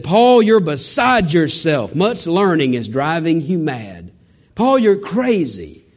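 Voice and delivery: slow, drawn-out mocking rebuke; mock scornful Festus. Festus scoffing at Paul's defense, slow drawn-out mockery. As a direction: stretch each word out like a scoffing governor. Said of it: "Festus with a loud voice said".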